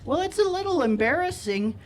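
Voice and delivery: a hint of a shy, cute Midwestern lilt. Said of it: "in this super cute Midwestern way".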